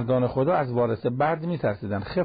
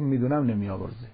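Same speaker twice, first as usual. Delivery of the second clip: hopeless tone. Retold or imitated. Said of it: "این چه لحنیه؟".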